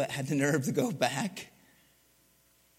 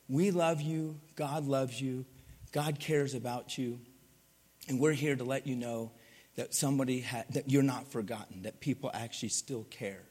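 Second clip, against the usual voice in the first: gentle reassurance; 2 semitones lower, 4 dB quieter than usual. Retold or imitated. Preacher comforting angry old lady.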